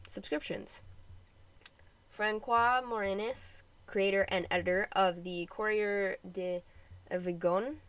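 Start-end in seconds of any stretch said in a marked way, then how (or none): 2.1-3.6 put-on French name said with a light French accent, slowly. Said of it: "I keep doing a French accent every time there's French words". 5.5-7.8 a hint of French on Avignon; French accent. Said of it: "I keep doing a French accent every time there's French words".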